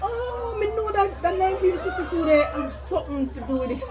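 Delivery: high giggly voice through laughter; laughing, high-pitched. Real, not acted. Laughing at her own mistake.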